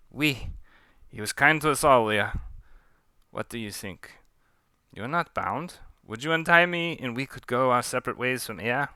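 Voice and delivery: put-on half-lost French accent, mild plea; slipping French accent. Pontou asking Leah to untie him, slipping French accent. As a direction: let the French accent slip away. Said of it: "What happened to my accent?".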